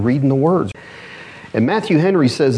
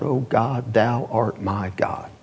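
slow and softer, almost prayed; a soft, drawn-out prayer upward; hushed cry to God; 5 dB quieter, slower than usual. Retold or imitated. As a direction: murmur it reverently and slow. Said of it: "looks up into heaven and cries out".

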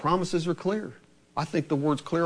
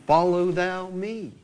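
slow refrain; slower than usual. Acted.

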